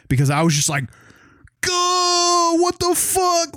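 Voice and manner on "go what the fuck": high, drawn-out cry of shock; stunned disbelief. Retold or imitated. Fan reliving his shock at a TV fight, stunned. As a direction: re-enact a jaw-dropping shock, much higher. Acts out jaw-drop reaction to show.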